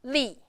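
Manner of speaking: LI falling with some force; fourth tone. Shown as a demonstration. Teacher showing learners the fourth tone, firm falling li. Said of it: "Give a little bit more strength".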